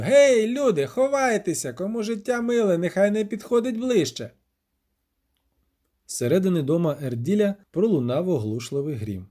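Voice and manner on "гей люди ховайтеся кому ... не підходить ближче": calling out. Acted. Calling the crowd away.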